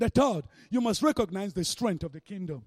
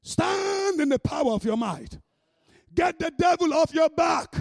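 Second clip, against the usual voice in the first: commanding shout; 5 semitones higher than usual. Acted. Believer rousing themselves against the devil, commanding shout. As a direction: call it out as a forceful command. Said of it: "You say".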